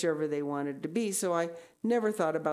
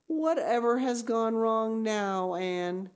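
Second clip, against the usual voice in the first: slow, raised, mildly dismayed question; doubt and dismay; 6 semitones higher, 4 dB louder, slower than usual. Acted. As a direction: ask it loudly with a touch of exasperation. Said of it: "queried Marilla in doubt and dismay".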